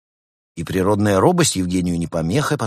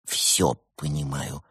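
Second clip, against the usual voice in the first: lying; 6 semitones lower, 5 dB quieter, slower than usual. A narrator's reading. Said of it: "соврал Пингвин".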